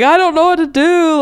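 high-pitched mock panic; retold helpless plea. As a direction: plead helplessly, recalling your own panic. Acting out a helpless call.

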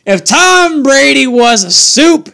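a Boston fan's hot take; playful Boston accent. Pretend. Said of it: "Boston regionalism".

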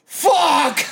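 sudden mock groan of defeat; a hammed-up frustrated curse; retold frustrated curse. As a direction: blurt it out like you just missed closing. Customer realizes store closed again.

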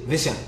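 put-on "Vince Young" run together like "Vishuh"; mock mumbled "Vince Young", squashed into two quick syllables; imitating slurred name. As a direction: say "Vince Young" fast, swallowing the consonants. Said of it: "you said that shit".

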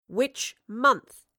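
stern. Acted. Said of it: "she repeated sternly".

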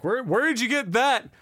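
high, surprised mom. Retold or imitated. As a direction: ask like a startled mother. Mom voiced in story.

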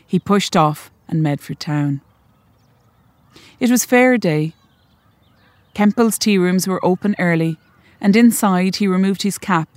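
measured, even reading of a short story; story narration. A narrator's reading. Author reading her story to the audience, measured and even. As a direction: read it like an author at a launch.

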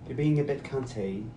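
lightly put-on British accent, drawn out. Shown as a demonstration. Demonstrating how to say the word, mock British accent. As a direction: say it slowly with a hint of British. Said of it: "say it with a British accent".

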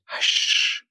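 whispered hush. Acted. Love silences Rumi.

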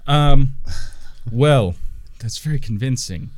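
taken aback; surprised gnome. Acted. Gnome reacts to the forged scroll, startled.

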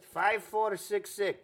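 slow, careful digit by digit; dictating slowly. Acted. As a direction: read each digit out slowly. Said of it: "Okay, slowly".

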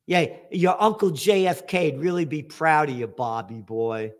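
dry, mocking praise; sarcastic. Real, not acted. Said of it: "I say that sarcastically".

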